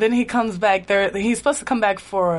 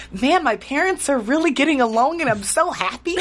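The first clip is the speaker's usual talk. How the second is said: put-on Canadian accent; 5 semitones higher than usual. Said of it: "Did I just do a Canadian accent?".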